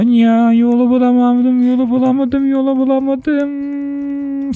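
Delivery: slow, stretched-out whining; long despairing drawl; drawn-out whine. Real, not acted. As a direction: moan it out, lost and fed up. Lost in the maze, despairing.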